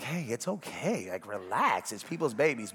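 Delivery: imitating an easygoing, soothing voice; laid-back reassurance. Preacher voicing the younger generation tolerant of babies, relaxed reassurance. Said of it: "you're a little bit more like".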